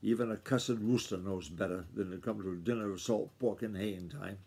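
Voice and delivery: low, sour grumble that fades off; grumbling. Acted. Uncle leaving dinner table, grumbling sourly to himself. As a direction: mutter the complaint sourly as you push back. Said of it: "he grumbled".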